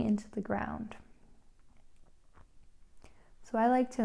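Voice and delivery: unhurried instructions with long pauses; calm, spaced-out meditation leading; guided meditation. Real, not acted. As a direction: guide a listener gently into relaxation.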